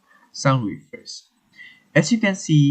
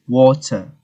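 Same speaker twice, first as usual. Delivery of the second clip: British water, crisp T and no final R; British pronunciation; 6 dB louder than usual. Shown as a demonstration. Teacher showing how British water sounds, British pronunciation. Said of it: "So for the British".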